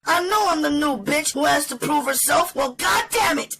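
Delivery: high-pitched, fast-talking woman fed up and daring him; spitting defiance. Acted. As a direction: spit it out in a furious high rush. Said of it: "when she spat out her invitation".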